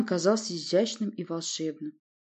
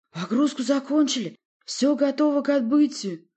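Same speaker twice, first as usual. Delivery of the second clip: loud sailor report; 9 semitones higher, 5 dB louder than usual. A narrator's reading.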